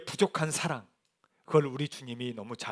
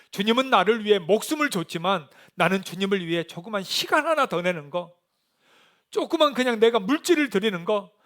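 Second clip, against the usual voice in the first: higher, louder confession with rising force; impassioned preaching; 7 semitones higher, 7 dB louder than usual. Acted. Preacher voicing the congregation's confession to the Lord, impassioned.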